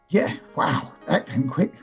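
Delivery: hoarse, choked-up croak; croaky from holding back tears. Real, not acted. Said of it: "Excuse my croaky voice".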